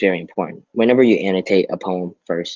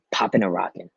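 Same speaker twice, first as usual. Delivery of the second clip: lively rhythmic read with punched words; expressive poem reading. Shown as a demonstration. Teacher reading a poem aloud to students, expressive and rhythmic. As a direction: perform the poem with bounce and emphasis. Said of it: "So I'm gonna read this for y'all so you understand how it's supposed to sound".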